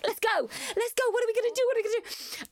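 rally yourself like a sports fan; hyped shouting. Retold or imitated. Pumping herself up in labour.

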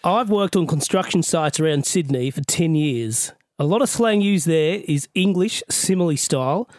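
put-on Aussie reading voice; imitation Australian accent. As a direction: read the letter as an Australian. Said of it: "That's a really good accent".

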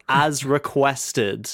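slow, sarcastic "as requested"; mocking quote. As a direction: drawl "as requested" slowly with mock politeness. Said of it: "the fucking words that made me pissed off".

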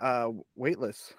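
slow breathy whisper. Pretend. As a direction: hush it like floating. Floating feeling of rolling in space.

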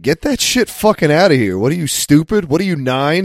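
high, mocking angry agent; rude TSA agent. Voicing TSA agent scolding.

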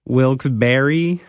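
Barre said as "berry"; alternative pronunciation. Shown as a demonstration. Host offering co-host another option, Barre said as "berry". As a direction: say "Barre" to rhyme with berry, questioning rise. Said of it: "have you ever known if you say".

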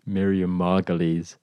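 slow hushed whisper; hushed secret reveal. Acted.

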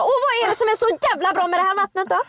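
high, sneering put-on voice; snooty voice. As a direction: sneer at it like a snob. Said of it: "det här är jag när jag går in till Stockholm". (nedlåtande fjollig röst)

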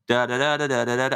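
put-on English actor's warm-up for an Irish accent; nonsense-syllable try at an Irish accent; imitated Irish accent. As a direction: mimic someone finding an Irish accent. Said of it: "when he tries to do an Irish accent".

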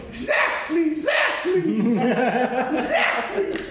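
hammed-up Italian accent like Chico Marx, laughing through it. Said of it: "had the best Italian accent".

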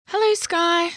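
high, loud call toward the house. A narrator's reading. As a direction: call out to a friend from outside. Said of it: "Sparkle called as they approached".

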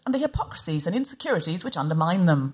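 measured, scripted show introduction; polished presenter delivery; podcast intro read. Shown as a demonstration. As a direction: read out the podcast's mission statement. Reads the show's set introduction.

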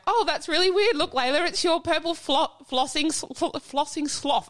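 put-on cheerful call to a little girl; retold delight. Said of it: "And I was like".

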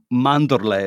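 "mandorle" said the Italian way, MAN-dor-leh; teaching a co-host the Italian word for almond; Italian pronunciation. Shown as a demonstration. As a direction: give "mandorle" its Italian sounds, stress on the first syllable. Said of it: "is how you say almond".

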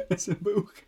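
mimicked "book" with a long oo; Geordie "book". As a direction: imitate the long northern vowel in "book". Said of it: "book that come out quite Geordie".

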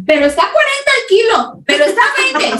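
high, slow haggling vendor. Retold or imitated. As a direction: whine it like a market seller. Quoting fruit vendor.

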